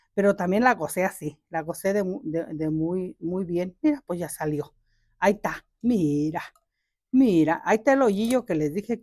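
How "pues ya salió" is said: ordinary delivery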